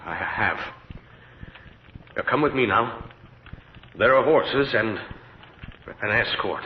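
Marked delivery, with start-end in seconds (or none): 2.2-6.6 urgent command. Acted. Paul urges her to leave.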